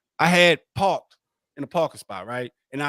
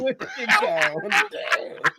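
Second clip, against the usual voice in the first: whispered taunt echo; 3 semitones higher than usual. Pretend.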